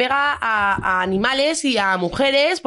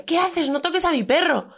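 higher, indignant protest; retold outrage; 6 semitones higher than usual. To the man who kicked her dog, indignant higher protest. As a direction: defend the dog, voice up. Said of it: "En plan".

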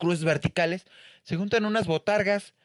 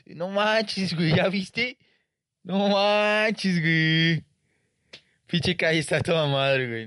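higher, impressed street voice; amazed passerby; 4 semitones higher, slower than usual. Retold or imitated. Passerby telling a friend how great the street is, impressed. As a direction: gush over the street like a wide-eyed local. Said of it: "la gente que".

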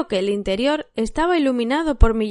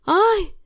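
anguished cry; 9 semitones higher than usual. A narrator's reading. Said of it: "exclamó él".

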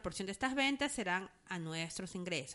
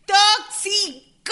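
giggling; 10 semitones higher, 15 dB louder, much slower than usual. Real, not acted. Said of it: "¿Por qué no puedo decirlo?".

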